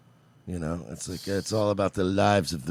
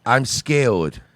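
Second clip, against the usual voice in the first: mock scared baby; 6 dB louder than usual. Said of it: "I'm a baby trapped".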